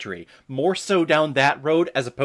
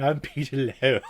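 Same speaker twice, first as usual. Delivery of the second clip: Peter Lowe. Retold or imitated. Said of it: "and saying".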